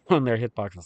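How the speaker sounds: coughing through the words; words broken up by coughs; coughing fit. Real, not acted. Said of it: "Sorry, I'm coughing so much".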